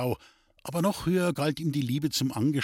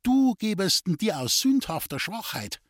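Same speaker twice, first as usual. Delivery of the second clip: mother; 6 semitones higher than usual. Acted. Frightened mother warns son.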